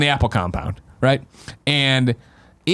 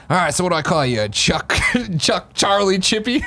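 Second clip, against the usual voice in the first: retold question; 5 semitones higher than usual. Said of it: "it was like".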